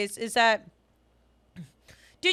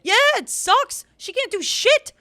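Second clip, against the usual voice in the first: much higher and louder, emphatic rant; 9 semitones higher, 8 dB louder than usual. Real, not acted. Cohost venting to fans, loud and emphatic. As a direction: vent it loud and high, exasperated. Ranting about Taylor's life.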